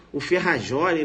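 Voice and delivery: "Ferrajoli" with a Portuguese zh for the J; wrong reading. Shown as a demonstration. Teacher voices a student's misreading, wrong pronunciation. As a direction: say "Ferrajoli" as spelt, fe-ha-ZHO-li. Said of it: "Não".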